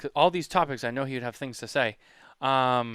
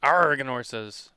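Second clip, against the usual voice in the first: pirate voice; 6 dB louder, slower than usual. Pretend. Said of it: "say it like a pirate".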